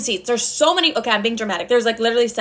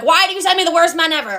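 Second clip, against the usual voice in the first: mock yell; 6 semitones higher than usual. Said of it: "I've been yelling at her".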